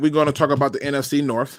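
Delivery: plain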